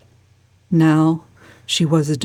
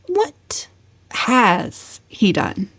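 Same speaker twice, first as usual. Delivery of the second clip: sudden question; 5 semitones higher, 3 dB quieter, much slower than usual. A narrator's reading. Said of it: "asked Valancy suddenly".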